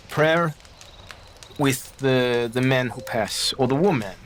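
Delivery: halting, with long searching pauses; picking his words. Acted. Baptiste offers a prayer, hesitantly picking his words. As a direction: search for each word as a careful foreigner. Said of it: "tries to pick his word".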